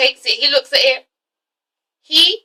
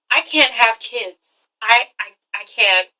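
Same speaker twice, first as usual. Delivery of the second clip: slow, halting acted admission; subdued confession; 2 semitones lower, slower than usual. Woman confessing to her boyfriend, subdued and halting. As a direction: stammer it out slowly, playing reluctant. Same confession replayed seriously.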